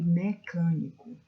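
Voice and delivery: "mecânico" with a strong, stretched CÂ; slow down and lean on CÂ in "mecânico"; stressed antepenult. Shown as a demonstration. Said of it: "a posição da sílaba tônica".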